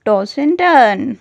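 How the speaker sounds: slow model repetition of toss and turn; very slow teaching pace. Shown as a demonstration. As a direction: toss and turn, each word drawn out slowly. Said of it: "करवट बदलने को कहते हैं".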